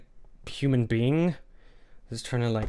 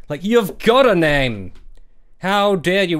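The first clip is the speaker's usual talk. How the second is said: mock outrage; 4 semitones higher, 6 dB louder, slower than usual. Mock outrage at having names.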